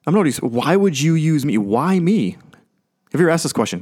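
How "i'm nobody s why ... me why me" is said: higher-pitched, mock-pleading Moses; incredulous protest. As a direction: protest to God in disbelief. Acting Moses protesting to God.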